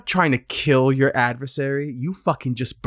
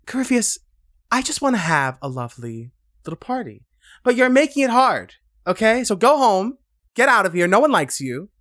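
higher, louder petty taunting; mock taunting; 5 semitones higher, 3 dB louder than usual. Hero mocks the villain Corypheus, high, loud and petty. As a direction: dismiss him like a bratty party host. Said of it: "And she's like".

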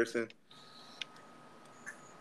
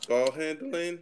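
voice cracking; 5 semitones higher, slower than usual. Real, not acted. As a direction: voice cracks on the words. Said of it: "My voice crack".

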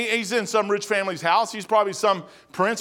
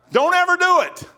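higher, louder emphatic warning; 9 semitones higher, 4 dB louder than usual. Real, not acted. Preacher warns the congregation, louder and higher. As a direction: hammer the point home. Preacher drives the point home.

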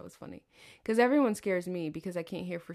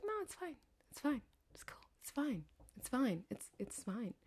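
mock reassurance; 4 semitones higher, 11 dB quieter than usual. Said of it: "He was like".

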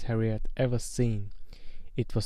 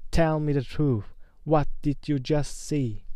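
demanding; 3 semitones higher than usual. Acted. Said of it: "Quirrell shouted".

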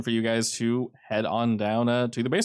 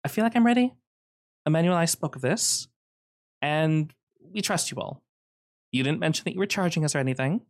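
high-pitched character voice, readying herself; trusting wife character; 6 semitones higher than usual. Acted. Plays the wife addressing the group.

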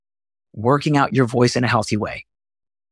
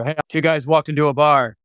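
talking down low. Shown as a demonstration. Coach shows how not to be funny, low voice. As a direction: joke opener in a low register. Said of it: "you don't wanna talk down here".

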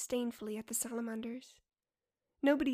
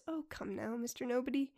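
smiling. Acted. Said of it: "hear the smile in her voice".

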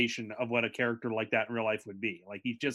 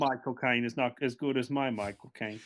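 lightly put-on Cockney voice; a hint of London actor voice; Michael Caine; 2 semitones lower than usual. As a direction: attempt a rival celebrity impression. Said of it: "you don't do the broken voice".

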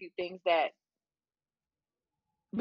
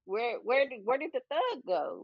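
mock younger self; 4 semitones higher than usual. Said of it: "younger me would look at me and be like".

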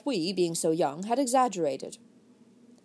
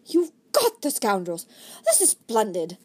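delighted surprise; 3 dB louder than usual. Acted. Sir Philip greeting Desmond over the captured boys, delighted surprise. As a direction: voice lifts in pleased surprise. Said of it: "His voice went up in a delighted surprise".

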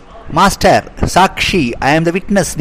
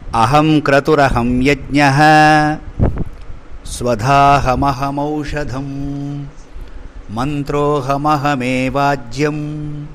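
slow, measured chant of the verse; Sanskrit verse recitation. Acted. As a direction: intone the shloka evenly, like scripture.

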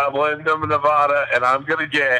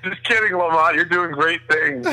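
sarcastic; 3 semitones higher than usual. Pretend. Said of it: "It's Sarcastic Tuesday".

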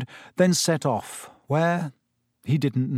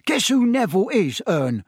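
1 excited Stan; 8 semitones higher, 3 dB louder than usual. A narrator's reading. Stan excitedly tells Ern.

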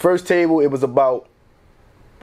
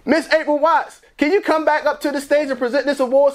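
announcer call; 10 semitones higher than usual. Retold or imitated. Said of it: "they like".

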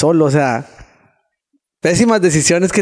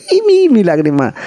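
laughing; 4 semitones higher than usual. Real, not acted. Mocking his own tears.

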